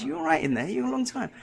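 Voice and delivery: loud, high call through a closed door, checking on him. Retold or imitated. Wife calling through the toilet door, loud and high.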